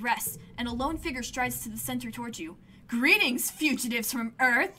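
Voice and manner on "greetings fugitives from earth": commanding officer. Acted. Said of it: "the man said".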